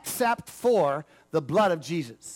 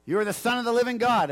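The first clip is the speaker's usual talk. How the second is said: mildly raised, quick eager pupil; acting out a disciple sure of his answer; 3 semitones higher, 4 dB louder than usual. Peter answering Jesus' question, eager and confident.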